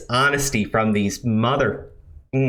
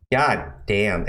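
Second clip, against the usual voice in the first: ordinary talk, nothing marked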